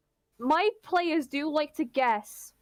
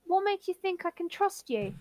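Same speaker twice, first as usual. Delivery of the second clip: higher-pitched Cockney challenge; distrustful, in a Cockney voice; Cockney accent; 6 semitones higher than usual. Acted. Milo questioning whether to trust her, in Cockney. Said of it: "It's got a Cockney accent".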